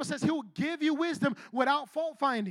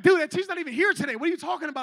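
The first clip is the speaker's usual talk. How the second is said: higher, louder, rushed objection; mock incredulous; 3 semitones higher, 5 dB louder, much faster than usual. Friend telling angry student the teacher is absent, mock incredulous. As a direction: act out a baffled friend correcting someone. Acted friend disputing a made-up quarrel.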